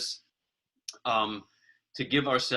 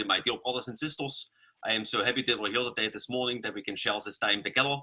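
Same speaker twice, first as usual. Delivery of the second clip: a hint of Saxon German English, consonants softened; Saxon German accent. Church elder greeting Swedish visitors, lightly mimicked Saxon German accent. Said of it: "So his English sounded something like this".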